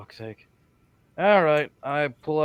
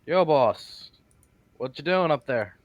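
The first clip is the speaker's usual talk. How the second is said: casual shout up to someone; louder, higher opening hail; calling up; 4 semitones higher, 4 dB louder, slower than usual. Acted. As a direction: call up to a stranger overhead. Calls up to figure on statue.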